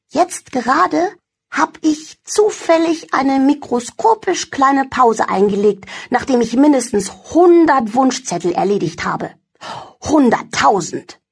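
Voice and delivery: a fibbing little elf, high; lazy elf voice. Acted. Elfried's voice in story.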